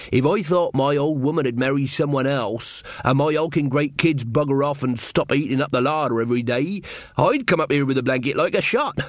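mildly acted rustic grumbler; a touch of country drinker holding forth; lightly voiced villager. Thatcher grumbling about wife and kids, lightly voiced rustic.

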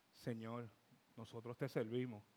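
low, quiet grievance to God; a hushed, mildly annoyed inner prayer. Retold or imitated. Husband complains to God in his heart, quietly annoyed. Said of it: "se lo dije molesto".

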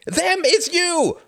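slow, high, loud retort; enraged scream. A narrator's reading. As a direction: scream it back wildly. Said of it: "screamed Martin".

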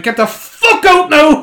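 high, loud, slow furious roar; furious mock roar. Barman throwing the Cork lads out, roaring. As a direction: roar them out of the pub.

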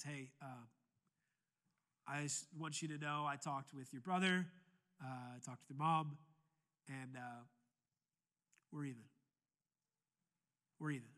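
dad quietly forgiving his son's debt; gentle father. Retold or imitated. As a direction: ease the son's burden quietly.

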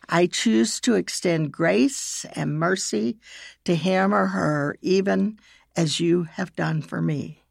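measured, with long pauses between phrases; slow prayer reading. Shown as a demonstration. Leading listeners in a prayer of forgiveness, slowly. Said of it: "I will read it slowly".

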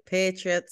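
"Patriots" squashed to two syllables, PAY-truts; imitated accented pronunciation. Echoing her friend's slip, "Patriots" as accented PAY-truts. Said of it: "it sounded like you're like".

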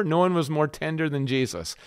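eased-back, mild tenderness; a touch of tenderness; tender. Shown as a demonstration. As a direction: let the push drop away on tender. Contrasts tender with tough.

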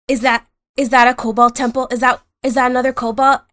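excited kobold. Acted. Pants spots another kobold.

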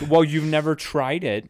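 mocking friend voice. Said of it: "And he's like".

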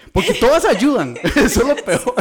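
high, loud laughing speech. Real, not acted. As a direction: talk through laughter. Laughing while explaining. (hablando entre risas)

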